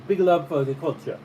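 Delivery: put-on Jamaican patois sign-off; mock patois. White guy shows friends love for the culture, imitated patois. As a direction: imitate a stranger laying on the patois. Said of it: "And the guy breaks his accent".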